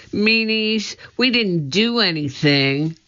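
put-on high indignant child shout; shouting at guards. Annie shouting high-pitched at the laughing guards. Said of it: "Annie shouting at the guards".

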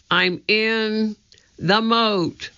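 breathless, gulping air; out of breath from swimming; gasping for air. A narrator's reading. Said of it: "gasping for air".

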